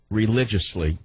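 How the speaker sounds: "religiously" set apart by a pause for emphasis; stress on religiously. Real, not acted. Host addressing loyal listeners, "religiously" emphasized as a word on its own. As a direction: lean deliberately on the word "religiously". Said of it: "I emphasize the word religiously".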